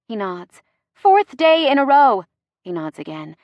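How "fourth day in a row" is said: higher, louder, giddy exclamation; near hysterical. A narrator's reading. Gemma to Chase about paparazzi outside, mildly hysterical. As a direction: blurt it with a touch of hysteria. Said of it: "I'm practically hysterical by this point".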